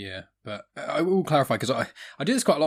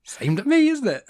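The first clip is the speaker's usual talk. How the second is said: much higher and louder, gushing "Oh"; mock delighted squeal; 13 semitones higher, 8 dB louder, slower than usual. Hearing her name on the podcast, mock delighted squeal. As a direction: squeal like a flattered fan.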